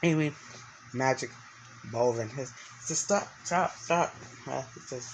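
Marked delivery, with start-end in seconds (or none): 3.0-4.2 higher, urgent command; a mild mock shout to halt the beast; urgent stop. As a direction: call the wolf off, higher and urgent. Character shouting at the wolf.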